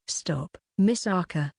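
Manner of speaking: faint, strained plea; a weak cry of agony. Acted. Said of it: "It was a very weak voice".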